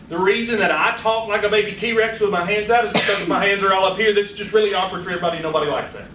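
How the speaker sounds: answer, folding the question back in; demo answer. Shown as a demonstration. Presenter demonstrating a paraphrased answer, lively. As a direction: model a paraphrased reply. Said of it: "So my answer to that question would be".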